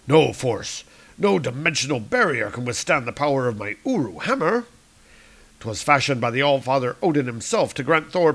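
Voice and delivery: proud archaic hero; Thor. Acted. Thor telling Salandra of Mjolnir, proudly. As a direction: declaim the hammer's legend. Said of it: "Thor boasts".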